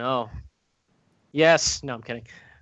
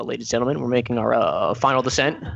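lightly voiced pilot announcement, a touch lower; airline pilot voice; 4 semitones lower, faster than usual. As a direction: mimic a captain's cabin announcement. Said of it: "You sound like an airline pilot".

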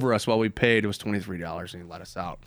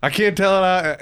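imitating the guard's voice; 6 semitones higher, 6 dB louder than usual. Voicing the guard's thoughts.

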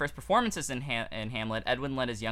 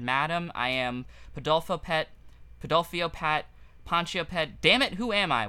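stammering stage fright; 3 semitones higher, 3 dB louder than usual. Retold or imitated. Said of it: "he stammered".

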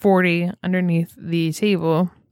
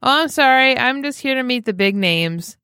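retold loud voice; 4 semitones higher than usual. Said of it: "a very loud voice".

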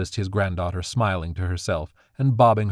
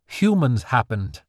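cold; 4 semitones higher, slower than usual. Acted. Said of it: "Magnolia said coldly".

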